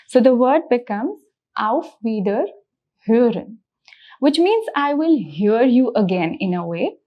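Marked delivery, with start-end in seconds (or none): 1.6-3.6 Auf Wiederhören with a rounded Ö in hören; umlaut shown. Shown as a demonstration. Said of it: "the pronunciation of O umlaut".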